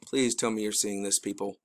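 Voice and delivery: low, soft appeal to the audience; quiet pleading. Real, not acted. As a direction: plead softly, trailing down at the end. Pleading with viewers to see.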